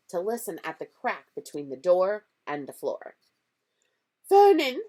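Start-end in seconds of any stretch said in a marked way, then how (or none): 4.3-4.8 quivering voice. A narrator's reading. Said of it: "in a quivering voice".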